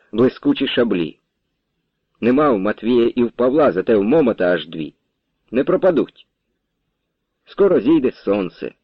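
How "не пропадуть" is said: ordinary delivery, nothing marked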